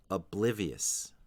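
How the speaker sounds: "Oblivious" slow, BLIV strongest, slight weight on the end; second-syllable stress. Shown as a demonstration. Teacher demonstrating the stresses, slow "Oblivious" with BLIV strongest. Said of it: "The stress is on the second syllable".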